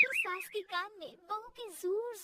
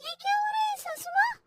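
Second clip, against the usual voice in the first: high-pitched astonished question; shocked amazement; 9 semitones higher than usual. Acted. Daughter-in-law sees mother-in-law freeze, shocked. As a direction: gasp it out high.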